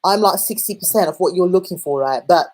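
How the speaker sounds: brash, half-hearted Cockney bloke; lightly imitated Cockney lad; slightly Cockney accent. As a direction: put on a slight Cockney, playing a controlling boyfriend. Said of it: "a slightly Cockney British accent".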